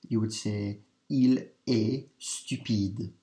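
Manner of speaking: il est stupide, slow, with the t of est silent; French liaison demo. Shown as a demonstration. Teacher modelling il est stupide without the t. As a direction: say il est stupide slowly, no t sound. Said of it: "if you wanted to say".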